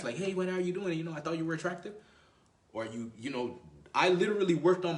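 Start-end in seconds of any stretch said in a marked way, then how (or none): 0.2-1.9 hurried pick-up line, pitched up; too fast. Shown as a demonstration. Man approaching a woman he likes, hurried. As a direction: rush it eagerly at a higher pitch. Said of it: "Do you speak real fast?".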